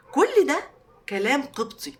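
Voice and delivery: high, loud all of this; triumphant high burst before the punchline; excited reveal. Real, not acted. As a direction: build to the big reveal. Punchline of the word list.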